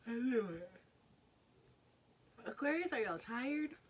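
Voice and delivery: bright high burst of recognition; loud, high, delighted exclaiming; excited exclaim. Real, not acted. Reacting to the Aquarius card.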